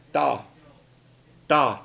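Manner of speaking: DA with a soft, unaspirated t like a d. Shown as a demonstration. Teacher gives an example of soft T, DA in one syllable. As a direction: join the soft T straight onto the vowel in DA. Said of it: "Here is a soft T".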